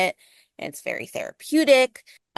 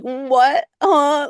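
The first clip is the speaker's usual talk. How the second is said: a loud, higher incredulous huh; mock disbelief; 5 semitones higher, 6 dB louder than usual. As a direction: act baffled, laughing it off. Incredulous reaction to reading.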